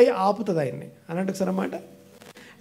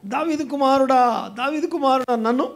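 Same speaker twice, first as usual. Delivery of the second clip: mock beggar's cry; 4 semitones higher than usual. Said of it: "మొదటి కేక గట్టిగా అరిచాడు".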